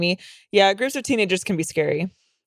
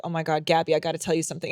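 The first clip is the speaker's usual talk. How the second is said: hushed urgent; 4 semitones lower, 5 dB quieter, faster than usual. Retold or imitated. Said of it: "I'm like".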